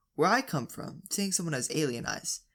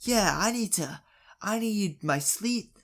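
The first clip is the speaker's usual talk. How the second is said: going off at him; 3 semitones higher than usual. Retold or imitated. Neighbour complains to dad about lost sleep, going off at him. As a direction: rant like a fed-up neighbour, lightly acted. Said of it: "going off at him".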